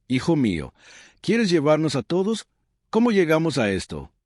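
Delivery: a father breaking down over his lost son; bursting into tears. A narrator's reading. Father crying out for his missing son, tearful. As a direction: voice rising high in grief, pleading. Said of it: "estalló en lágrimas".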